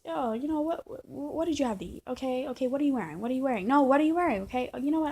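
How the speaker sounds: mocking her in a voice pitched well up; hammed-up imitation of a demanding partner; high mock girlfriend. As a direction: play the clingy girlfriend, high and needy.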